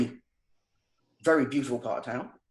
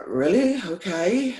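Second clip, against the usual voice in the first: surprised; 5 semitones higher, 4 dB louder, slower than usual. Retold or imitated. Stunned reply to staff warning.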